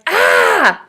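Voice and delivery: a smaller, lighter cry of fright; a half-hearted imitated yelp; mock scared yelp. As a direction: play it down as not quite a scream. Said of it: "It wasn't a scream".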